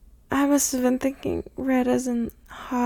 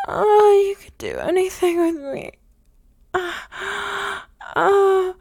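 building moans; 3 semitones higher, 3 dB louder than usual. Acted. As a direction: let each oh climb. Moaning builds with arousal.

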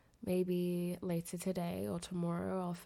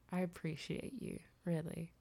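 ordinary delivery

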